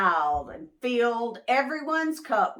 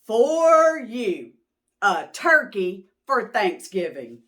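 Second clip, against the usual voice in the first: proud offering; 7 dB louder than usual. Acted. Mister Moose offers Turkey.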